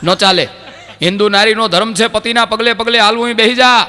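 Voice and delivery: husband ordering his wife to sit for worship, shouting; bossy order. Retold or imitated. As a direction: force her to sit, shout the last words.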